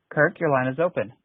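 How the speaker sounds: ordinary talk, nothing marked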